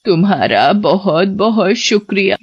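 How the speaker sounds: put-on slow, quavering old lady voice; frail old woman. Witch posing as old woman to the driver, slow and frail. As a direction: witch faking a gentle granny.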